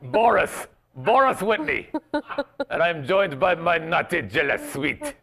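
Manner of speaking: lightly put-on Russian accent; mock Russian introduction. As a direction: play a comic Russian host called Boris. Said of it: "this is my Russian accent".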